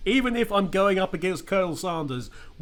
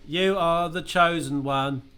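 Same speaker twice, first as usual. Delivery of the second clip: ghost voice; 2 semitones lower than usual. Acted. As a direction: intone it like a ghost. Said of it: "It's the ghost of the student".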